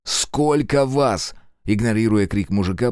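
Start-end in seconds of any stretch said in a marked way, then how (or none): 0.0-1.3 slow, measured, cold repeat of the question; repeated, colder. Acted. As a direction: ask again, ignoring his screams. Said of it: "повторил я свой вопрос". (холодно и медленно повторить вопрос)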